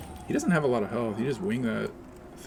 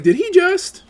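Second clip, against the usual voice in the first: squeaky high and louder shocked question; mock shocked gasp, louder; 12 dB louder, slower than usual. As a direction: gasp it even more scandalised. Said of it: "They're like".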